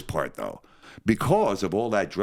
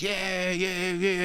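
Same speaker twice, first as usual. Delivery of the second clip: mock eager yeahs; 11 semitones higher, much slower than usual. Recruits eagerly volunteer for team leader.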